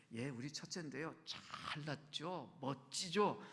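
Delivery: 살짝 흉내 낸 자식 자랑; '잘났죠'를 길게 끌며 은근히 뽐내듯; 자랑하는 부모. Acted. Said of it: "부모가 자녀들 자랑할 때". (자식 자랑하는 부모를 가볍게 흉내)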